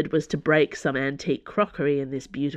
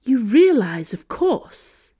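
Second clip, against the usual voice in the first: high, emphatic voice of authority; imperious Cardinal warning; 7 semitones higher, 7 dB louder, slower than usual. Acted. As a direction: lecture her as a lofty Cardinal. Cardinal warns Dana.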